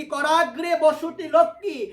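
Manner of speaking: slow sacred verse chant; verse recitation. Acted. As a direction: recite the sloka slowly and clearly.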